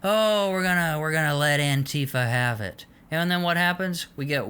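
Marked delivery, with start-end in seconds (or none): 0.0-2.8 mocking Trump.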